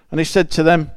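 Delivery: a hint of Yorkshire accent on the vowels; slip into Yorkshire accent. Real, not acted. Preacher reading Acts to the congregation, slipping into a light Yorkshire accent. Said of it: "just like that in a Yorkshire accent".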